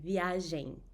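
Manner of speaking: viagem with open nasal em ending; viagem, final vowel through the nose; correct nasal ending. Shown as a demonstration. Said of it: "That's the correct pronunciation".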